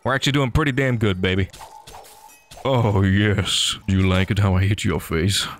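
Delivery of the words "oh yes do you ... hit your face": low, gloating taunt to the mob; mock villain taunt. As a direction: sneer at the enemy as you hit it. Taunting mobs while hitting them.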